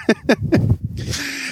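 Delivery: sputtering cough while laughing; coughing, choking on a sip; choking on a drink. Real, not acted. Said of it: "Jetzt verschluckt er sich voll".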